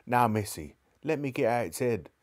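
gentle cockney cabby coaxing; not unkindly. Acted. Cabby coaxing Jadis off the horse, not unkindly. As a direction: coax her down kindly. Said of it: "in a not unkindly voice".

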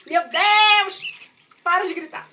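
real overwhelmed outburst over the noise; exasperated exclaim. Real, not acted. Mom to her screaming dog mid-bath, exasperated and loud.

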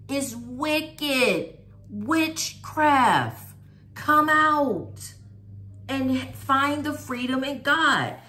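loud, urgent preacher call; preaching. Acted.

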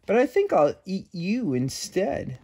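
lightly voiced hungry bird; sly threat from a bird; roadrunner voice. A narrator's reading. The roadrunner threatens the cookie, lightly voiced. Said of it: "said the roadrunner".

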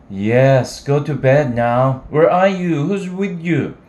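put-on scolding young woman. Sally scolding drunk caller.

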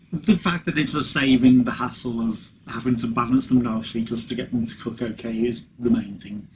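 talking through a mouthful of steak; chewing while talking; mouth full. Real, not acted. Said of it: "I still got steak in my mouth".

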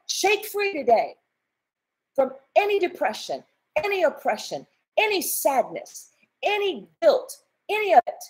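fervent preached prayer, rising and pushing. Acted. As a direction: pray over them with full conviction. Prays aloud over viewers.

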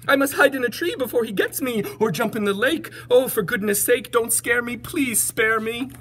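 high, loud fright; panicked elephant. Acted. Elephant terrified of a little mouse, high panicked shout. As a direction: cry out in alarm, pleading by the end. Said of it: "shouted the elephant jumping up".

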